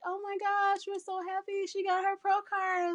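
high, bright, excited gush. Retold or imitated. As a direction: gush like thrilled teammates. Retelling others' excited gushing.

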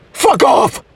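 sharp, fed-up outburst; exasperated rejection; angry dismissal. Acted. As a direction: send your boyfriend away furiously. Girlfriend rejects his love.

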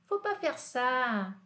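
slow, carefully spoken French; slow model sentence. Shown as a demonstration. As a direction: say it slowly for students to repeat. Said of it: "Repete comigo". (devagar, para os alunos repetirem)

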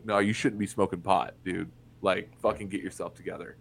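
bitter dismissive lecture; blunt scolding. Retold or imitated. Friends smoking pot, firm bitter scolding.

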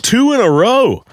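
high, loud, drawn-out complaint; exasperated outburst. Retold or imitated. Man hit twice in a row, loud high exasperation. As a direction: wail it slowly, high and loud, in disbelief.

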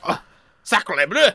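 put-on slow, loud French accent; drawn-out hammy French shopkeeper; french chef. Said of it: "they're like".

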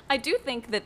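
talking while eating; words round a pretzel bite; mouth full. Real, not acted. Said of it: "I'm eating this pretzel".

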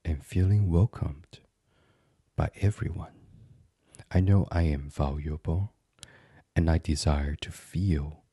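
calm but firm meditation voice, measured phrases; gently resolute affirmation, pausing between phrases; firm self-affirmation. Acted. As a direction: state each intention with steady conviction. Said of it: "So to say firmly to yourself".

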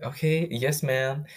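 chirpy overdone yes ma'am; eager, obedient yes ma'am. Retold or imitated. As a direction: snap to attention like a dutiful son. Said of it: "Well, I didn't say that".

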